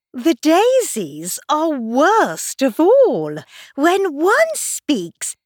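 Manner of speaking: indignant flower holding forth; grumbling Tiger Lily. A narrator's reading.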